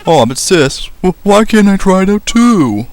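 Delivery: high, drawn-out pleading voice; whining fairy sibling. Acted. Fairy begging a sister for a turn, whining. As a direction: whine it up high and loud.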